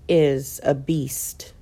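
hushed emphatic whisper. Real, not acted. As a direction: breathe the words out. Covid described, whispered emphasis.

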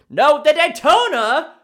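loud, high frustrated yell; no, the Daytona, full yell. Real, not acted. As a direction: shout the answer at yourself. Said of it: "Sorry for yelling".

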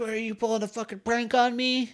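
high, put-on New York indignation; hammed-up New York tough talk; New York accent. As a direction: protest like an affronted New Yorker. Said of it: "you really went New York".

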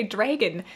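"dragon" with a Canadian first vowel; Canadian-accented "dragon", set apart as an example; Canadian pronunciation. Shown as a demonstration. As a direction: say "dragon" closer to "dray-gun". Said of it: "this is the one that came up".

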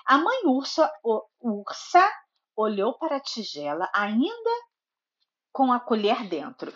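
storybook narration with lively character lines; reading to a child. A narrator's reading. Mother reading Goldilocks to her little daughter, storybook narration. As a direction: read it like a bedtime story for a toddler.

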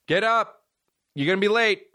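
high-pitched morning wake-up call; imitated nagging mom. Mom rousing him every morning, high nagging call. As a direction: mimic a mom calling her kid up.

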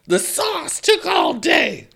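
put-on high, loud, drawn-out Midwestern accent; hammed-up Midwestern accent, stretched slow; mock Midwestern. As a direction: parody a Midwesterner proudly calling out. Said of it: "making fun of Midwesterners".

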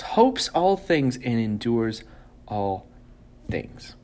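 slow, measured reading of scripture; solemn Bible reading with pauses. Acted. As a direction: read each line as a weighty pronouncement. Reads scripture aloud.

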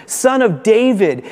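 high pleading cry, slowed down. Retold or imitated. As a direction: call out to Jesus as a desperate beggar. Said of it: "he starts crying out".

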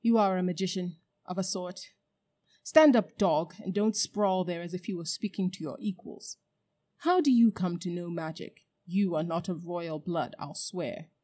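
loud bark on stand up, cold scorn; contemptuous queen. Acted. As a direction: talk down to a dog. Queen belittling Uncle Andrew.

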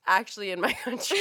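put-on lightly comic foreign accent; hint of a sitcom foreigner's accent; Fez impression. Host quoting a sitcom character, light accent impression. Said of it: "that's Fez from that seventies show".

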